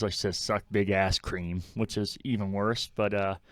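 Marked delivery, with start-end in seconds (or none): 0.4-1.6 "Kareem" said as one syllable, "creem"; Kareem run into cream. Retold or imitated. Showing how Riz's line really sounds, "Kareem" squashed to "creem". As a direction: slur "Kareem" into the word cream. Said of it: "the way she says it, it definitely just says".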